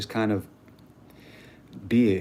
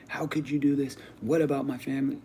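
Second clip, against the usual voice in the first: higher-pitched imitation of anguished questions; lightly acted dismay; mock distressed pleading; 5 semitones higher than usual. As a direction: toss off a mock plea, pitched up. Mimics panicked questions he didn't have.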